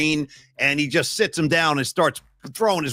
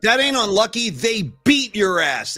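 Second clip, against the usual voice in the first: slow, emphatic and louder; slow irritated scolding, a bit louder; getting upset; 2 semitones higher, 4 dB louder than usual. Real, not acted. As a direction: hammer each word, annoyed. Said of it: "Sorry, I'm getting upset now".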